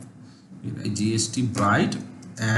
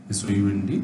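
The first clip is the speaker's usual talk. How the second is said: spelling out letters; 7 semitones lower, 5 dB quieter than usual. Shown as a demonstration. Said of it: "সাউন্ড".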